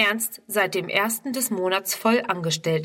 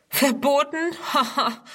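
higher, scoffing echo with a laugh; mocking; 6 semitones higher than usual. A narrator's reading. A youth mocks Ernst's warning, scoffing with a laugh. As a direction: sneer the word back, then laugh. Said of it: "spottet ein anderer".

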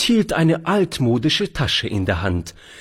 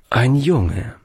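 embarrassed. Acted. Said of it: "antwortete der Alte etwas verlegen".

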